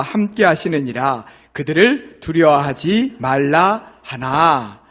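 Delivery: slow, solemn scripture read. Acted. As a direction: read each verse slowly, like from the pulpit. Reads scripture aloud to congregation.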